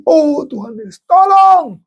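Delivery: high, loud crying plea; desperate cry. Acted. A believer begs Jesus for help, crying loudly. Preacher's mock desperate prayer.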